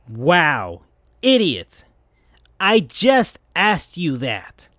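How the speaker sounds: slow, scornful scolding; mild put-on annoyance, dragged out slowly; angry and annoyed. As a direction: spell it out to her like she's dim. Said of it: "in an angry and annoyed way".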